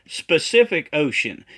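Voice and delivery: "specific" with a leading sp sound; mispronounced Pacific. Retold or imitated. Critic shows the prophet's error, "specific" said with an s in front. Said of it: "doesn't even know how to pronounce Pacific Ocean".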